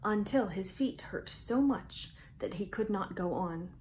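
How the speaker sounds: lively storybook read-aloud with big pauses; reading to children. A narrator's reading. Host reading Mouse Tales to young viewers, bright storytelling voice. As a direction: read it out like story time for little kids.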